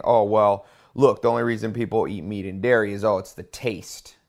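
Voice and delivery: mocking sarcastic tone. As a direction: drip with sarcasm, loud start. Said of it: "he was saying that sarcastically".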